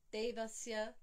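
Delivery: Devasya said quickly with a short first E; wrong vowel count. Shown as a demonstration. Showing students a mistake, Devasya cut short. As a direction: run through Devasya evenly, no held syllable.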